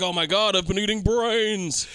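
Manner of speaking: loud, slow, horrified realization; shocked. Retold or imitated. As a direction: gasp out the horror. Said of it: "And Val's like".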